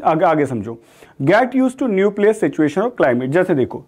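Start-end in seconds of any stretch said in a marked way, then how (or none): 1.2-3.3 very slow, deliberate reading of the meaning; slow definition read. Shown as a demonstration. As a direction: read the meaning slowly for students. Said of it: "teacher reads definition". (परिभाषा धीरे-धीरे पढ़ना)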